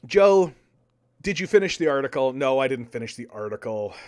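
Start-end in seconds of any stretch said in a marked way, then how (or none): 0.1-2.3 raised voice to get Joe's attention; a loud shout-out, quick on the question; calling out. Real, not acted. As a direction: call loudly across the room to Joe. Calling out to Joe off-mic.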